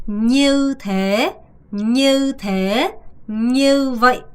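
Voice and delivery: như said as clear như with a rising lilt; careful Vietnamese pronunciation. Shown as a demonstration. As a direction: sound out như thế and như vậy slowly and clearly. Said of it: "이렇게 발음하셔야 되는데". (như를 또렷하게 올려서 발음)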